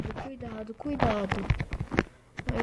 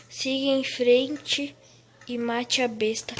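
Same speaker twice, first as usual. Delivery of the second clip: solemn reading; 3 dB louder than usual. Shown as a demonstration. Reads quest text aloud.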